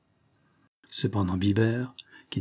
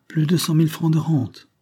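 put-on higher English-accented French; British accent; 6 semitones higher, 4 dB louder than usual. A narrator's reading. Englishman boasting of his income, British accent. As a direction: state the fortune as a British gentleman. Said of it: "un accent britannique des plus prononcés".

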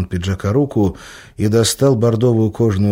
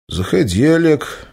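pointedly serene; 7 semitones higher than usual. A narrator's reading. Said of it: "подчёркнуто безмятежно пригласил волк".

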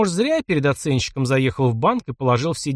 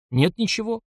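plaintive; 7 semitones higher than usual. A narrator's reading. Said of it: "как-то жалобно сказал Ерёма".

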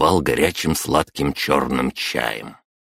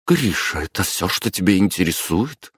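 bewildered drawl; 4 semitones higher than usual. Acted. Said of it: "растерянно протянула мама".

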